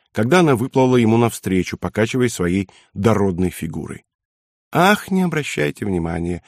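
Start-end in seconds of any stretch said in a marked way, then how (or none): 4.7-6.4 soft, higher-pitched languorous croon; languid singsong. A narrator's reading. Hotel owner dismissing the colonel's question, languid singsong. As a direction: sigh it out airily, brushing it off. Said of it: "томно пропела она".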